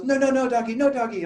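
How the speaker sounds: put-on a three-year-old telling the puppy to go away, high and insistent; toddler voice. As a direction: play a small child telling the puppy no. Toddler voiced pushing dog away.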